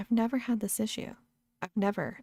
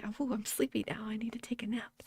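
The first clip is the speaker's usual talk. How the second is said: sleepy whisper; 3 semitones higher, 6 dB quieter than usual. Retold or imitated. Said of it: "Except then I was like".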